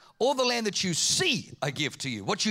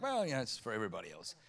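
mumbled excuse; 10 semitones lower, 9 dB quieter, faster than usual. Retold or imitated. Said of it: "I'm kinda feeling like".

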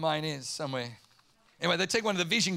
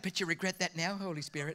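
cheeky tease; 3 semitones lower, 6 dB quieter than usual. Retold or imitated. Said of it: "being naughty to God".

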